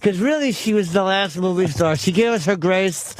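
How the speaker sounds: tight-toothed put-on articulation; teeth held still. Showing the co-hosts his new character, stationary-teeth voice. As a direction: talk with only the lips moving. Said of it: "Just part your teeth".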